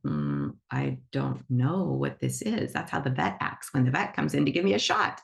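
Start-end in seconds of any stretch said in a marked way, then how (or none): 0.0-2.7 low, slow, doubtful hum and mutter; a lightly voiced suspicious animal, drawn out; wary animal. Animal unsure about a gloomy visitor, low and slow doubt. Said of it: "then they're like".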